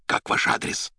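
hushed, voiceless aside; whisper. A narrator's reading. Poet asks doctor while covering the receiver, whispering. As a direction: whisper it so the line can't hear. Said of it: "шёпотом спросил бездомный у доктора".

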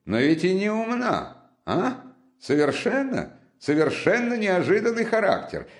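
excitable friend recounting his exploits; lively Razumikhin. Acted. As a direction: pour out the tale with eager emphasis.

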